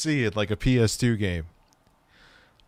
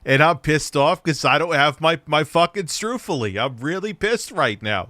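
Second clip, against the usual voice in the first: mock anger; 5 semitones higher, 3 dB louder than usual. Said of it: "Frank's feigning anger".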